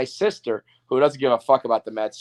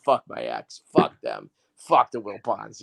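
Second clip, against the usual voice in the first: bitter; 4 semitones lower than usual. Retold or imitated. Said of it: "I'm still gonna be like".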